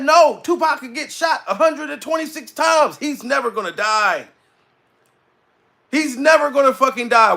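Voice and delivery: retold disbelief. Retelling fans' disbelief at death.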